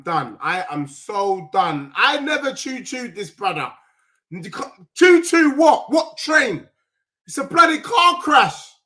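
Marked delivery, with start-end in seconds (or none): 4.9-8.7 shouting. Real, not acted. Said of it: "I keep shouting".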